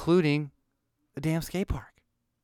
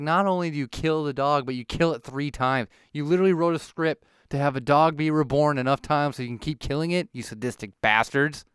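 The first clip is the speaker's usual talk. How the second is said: indignant rant. Retold or imitated. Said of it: "I was like".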